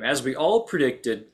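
slow, dry, straight-faced irony; deadpan sarcasm. Acted. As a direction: say it deadpan, slowly. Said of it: "Sorry, I couldn't say it with a straight face".

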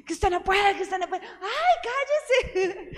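high mocking chant that dissolves into giggles; laughing imitation. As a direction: mimic the taunt, cracking up as you go. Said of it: "Jürgen ... empezó".

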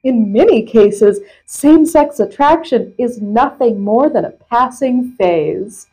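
measured, emphatic reading voice; article read-aloud. Acted. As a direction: read the question and answer out carefully. Reads article aloud to co-host.

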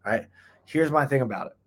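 ordinary talk

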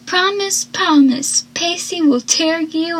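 high-pitched mild imitation of screaming; retold mock scream. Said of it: "as Ursula screams".

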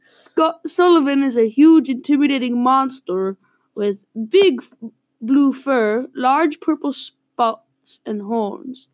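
put-on Canadian accent with a laugh breaking through. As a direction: keep the Canadian accent going, add "eh".

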